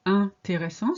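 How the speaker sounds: intéressant opening on a French nasal "un"; no n sounded at the start of intéressant. Shown as a demonstration. Teacher demonstrating the rule, nasal "un" opening. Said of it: "starts with the sound un".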